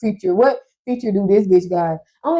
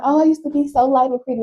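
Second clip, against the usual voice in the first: lightly voiced grandma, pitched up; grandma's bragging; 5 semitones higher, faster than usual. Granddaughter quoting grandma on her youth, imitating her boast. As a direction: imitate a grandma reminiscing, a bit higher. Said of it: "my grandma used to always be like".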